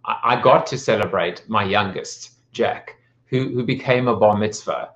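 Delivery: measured delivery of written reflections, pausing between phrases; speech read out to an audience; prepared speech. Acted. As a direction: read a proud personal tribute aloud, phrase by phrase.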